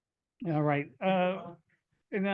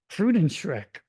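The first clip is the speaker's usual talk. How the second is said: loud, emphatic mock German title; fake German accent; 4 semitones higher, 8 dB louder, slower than usual. Shown as a demonstration. Poet opening the poem, loud fake German accent. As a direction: hit the title hard in bad German. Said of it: "the poem is in my worst, uh, fake German accent".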